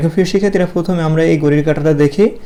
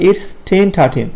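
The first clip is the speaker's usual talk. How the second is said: very slow, word by word It's ten thirteen; teacher drilling It's ten thirteen slowly for the class; slow model phrase; 3 semitones higher, much slower than usual. Shown as a demonstration. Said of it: "it কি বলি আমরা?".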